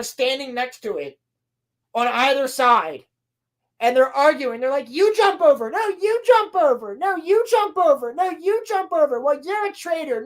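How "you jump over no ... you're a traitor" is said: bickering. Retold or imitated. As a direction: argue like squabbling kids. Acted quarrel.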